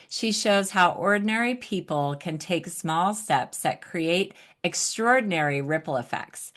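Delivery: measured host reading a guest bio; introduction read. Real, not acted. Host introducing nonprofit expert to audience, introduction read. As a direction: present the guest's credentials to listeners. Reads guest's biography aloud.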